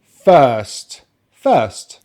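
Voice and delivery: "first" with a long "er", R silent; British "first", one long middle vowel; non-rhotic pronunciation. Shown as a demonstration. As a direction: model "first" carefully without the R. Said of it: "not gonna pronounce the letter R".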